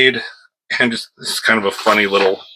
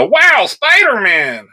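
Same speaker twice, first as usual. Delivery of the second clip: much higher, slow wondering wow; awed crowd; 10 semitones higher, 3 dB louder, slower than usual. Acted. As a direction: stretch it out like starstruck bystanders. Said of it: "they say".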